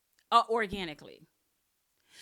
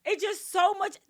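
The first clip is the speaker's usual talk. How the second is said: much higher and louder, cheeky and proud; sassy self-praise; 11 semitones higher, 7 dB louder than usual. Retold or imitated. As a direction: hype yourself up like your best friend would. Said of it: "I'm like".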